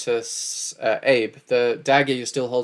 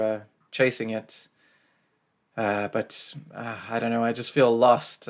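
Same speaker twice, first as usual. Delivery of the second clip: forlorn, subdued. Acted. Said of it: "forlorn and sort of subdued".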